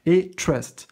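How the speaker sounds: TRUST said with a careful English accent; self-conscious attempt at English TRUST. Shown as a demonstration. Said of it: "de soigner mon accent anglais".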